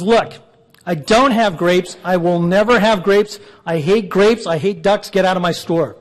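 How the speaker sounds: mock exasperation, each refusal punched; exasperated manager. Store manager fed up with a duck asking for grapes, mock exasperation. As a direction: play a store manager losing patience, mildly hammed-up.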